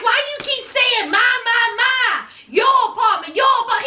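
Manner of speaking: exasperated complaint. Retold or imitated. Girlfriend quarrelling over whose house it is, exasperated imitation. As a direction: throw his repeated words back at him, hammed-up. Acted quarrel, Yari mocking his words.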